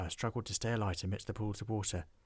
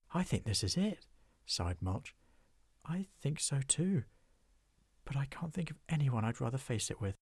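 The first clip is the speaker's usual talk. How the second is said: a hint of a higher, resigned friend; 4 semitones higher than usual. Friends face doom.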